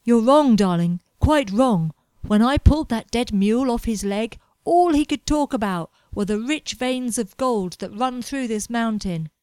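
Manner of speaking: put-on loud, emphatic young man insisting; a hint of a stubborn dreamer; insistent Edward. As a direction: press the point hard, almost shouting. Edward voiced, insisting loudly.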